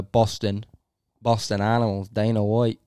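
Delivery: failed Boston accent that sounds Irish; badly faked Irish-sounding Boston accent; terrible Irish accent. Shown as a demonstration. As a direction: attempt a Boston accent and land on bad Irish. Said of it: "that was like an Irish accent".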